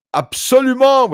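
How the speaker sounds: mock French accent, Absolument thrown out high and loud; French judge accent. Corrupt judge ruling in court, mock French accent. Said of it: "with his French, uh, France ac-, uh, accent from, uh, France".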